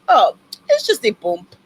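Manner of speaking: imitated French doctor brushing it off; French-accented dismissive reassurance. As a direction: play down the injury in a French accent. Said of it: "he is French".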